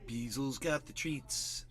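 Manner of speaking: slow, robotic echo of the chat voice; imitating text-to-speech. Repeating the chat reader's line in a slow robot voice. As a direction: mimic the reading bot deadpan.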